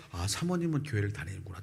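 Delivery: whispered realization to oneself; soft whisper of sudden insight; whispered thought. Retold or imitated. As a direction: breathe it out like a private discovery. Inner thought on seeing donation record.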